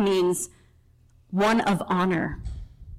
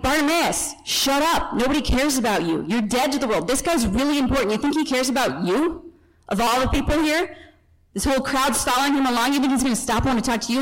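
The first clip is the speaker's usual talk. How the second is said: lightly acted scornful put-down; crowd's rebuke; 3 semitones higher than usual. Crowd telling a blind beggar to shut up, mock rebuke. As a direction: rebuke him as a nobody, voice a little raised. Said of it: "the crowd rebukes him".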